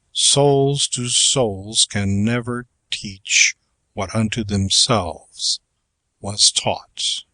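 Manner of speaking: slow, measured poetry reading; verse recitation. Acted. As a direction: recite it slowly, with weighty pauses.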